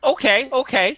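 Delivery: high, placating little voice; small tinny voice. Acted. Tree voice gives in to wary strangers, tinny. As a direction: concede quickly in a high small voice. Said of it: "says the voice from the tree".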